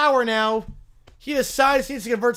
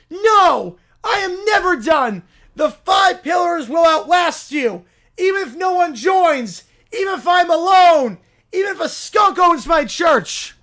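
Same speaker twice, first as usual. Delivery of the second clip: pushy self-proclaimed prophet bellowing; loud holy crusader voice; zealous preacher; 7 semitones higher, 8 dB louder, slower than usual. Acted. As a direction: barge in demanding converts. Preacher's defiant vow.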